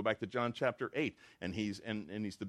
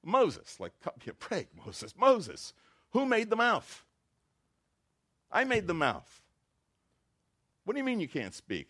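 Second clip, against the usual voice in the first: loud and high, voicing God's rebuke; God raising his voice at Moses; God ratcheting up; 9 semitones higher, 6 dB louder than usual. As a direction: build to a booming divine challenge. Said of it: "he ratchets up".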